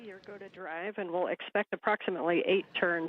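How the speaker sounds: crackly radio transmission from orbit; faint voice over a space radio link; sci fi communicator. Real, not acted. Crew radio loop under commentary.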